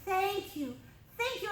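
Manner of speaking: loud, high, emotional outburst; overwhelmed praise. Retold or imitated. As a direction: cry out in overwhelming joy. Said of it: "threw himself on the ground".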